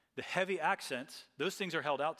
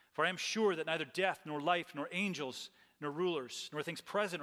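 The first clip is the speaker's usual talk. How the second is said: measured, emphatic Bible reading from the pulpit; scripture reading. Acted. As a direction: read the passage out with steady, solemn conviction. Reads scripture aloud to congregation.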